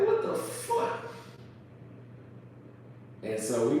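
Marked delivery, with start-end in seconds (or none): 0.0-1.0 slow, breathed disbelief; stunned whisper. Retold or imitated. Passenger after police let him go, stunned whisper. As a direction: whisper it slowly, dumbfounded.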